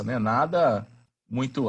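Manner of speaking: usual speaking voice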